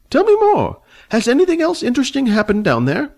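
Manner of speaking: put-on high, fussy old man, haughty and annoyed. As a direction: play the prickly old dragon rider, voice pitched high. Old man eager for news.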